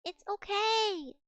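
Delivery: slow, gentle reassurance to a pet; calm the grumpy cat down; soothing. Real, not acted. Streamer soothing her upset cat, slow and gentle.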